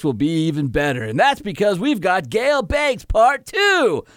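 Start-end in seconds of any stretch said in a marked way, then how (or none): 1.0-4.0 slow, drawn-out announcer read; radio announcer voice. Pretend. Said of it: "my super radio announcer voice".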